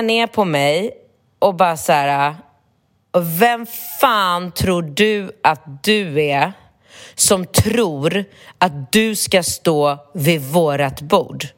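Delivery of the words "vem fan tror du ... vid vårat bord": slow, drawn-out mock put-down; lightly voiced tall guy drawling slowly; imitating a rude guy. Retelling the young guy telling her off, slow and mocking.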